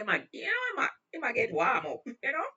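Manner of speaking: high, loud retold outburst; worked-up exclamation. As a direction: burst out, amused and animated. Retold officer warming up, performed loudly.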